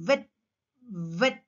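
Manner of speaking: "Wet" as vet, teeth on bottom lip; V sound. Shown as a demonstration. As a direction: start "Wet" with V. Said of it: "just inside".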